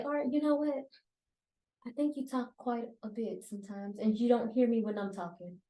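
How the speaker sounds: tactful rephrasing. Shown as a demonstration. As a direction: put it gently, with careful pauses. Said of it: "difference of how I just said that".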